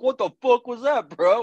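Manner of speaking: mock the friend's high, stunned complaint; upset friend, high voice. Friend after the movie, baffled, in a high mock voice. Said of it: "He's like".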